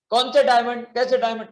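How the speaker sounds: feigned innocence. Acted. Greedy keeper denying the diamonds to the merchant, mock-innocent.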